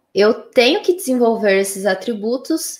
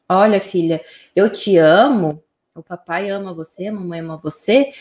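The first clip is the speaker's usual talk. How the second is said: declaração carinhosa; 3 semitones lower than usual. Acted. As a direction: reassure a little daughter of your love. Pai declara amor à filha. (fala carinhosa de pai para filha)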